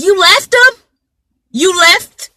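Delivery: high, disbelieving accusation; the brother can't believe it; shocked brother. Retold or imitated. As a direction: brother confronts the survivor in shock. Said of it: "and he's like".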